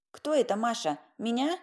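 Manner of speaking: a hint of a creaky granny asking; lightly voiced old woman, curious. A narrator's reading. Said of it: "проскрипела за дверью Полина Ильинична".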